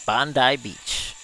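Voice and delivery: slow Australian Bondi Beach again, lighter; a light Aussie Bondi Beach; slow mock Australian Bondi Beach; Aussie accent. Shown as a demonstration. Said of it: "I feel so Aussie when I say that".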